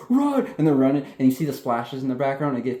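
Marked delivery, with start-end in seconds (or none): 0.1-0.5 high-pitched acted call to flee; hammed-up alarm, pitched way up; mock urgent cry. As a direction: imitate someone urging escape. Acts character calling to flee.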